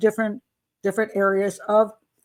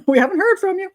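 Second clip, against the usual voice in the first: higher, louder imitation of a fretting parent; mock worried parent; 10 semitones higher, 5 dB louder, faster than usual. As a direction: play the nagging parent, pitched up and louder. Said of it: "they called me and said".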